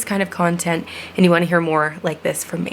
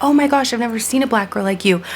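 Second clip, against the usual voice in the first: mock gushing; 5 semitones higher than usual. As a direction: gush like a clueless admirer. Mimicking backhanded compliment.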